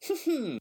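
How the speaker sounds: high, loud suggestive hum; leering hum. Retold or imitated. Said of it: "look across scenes and go".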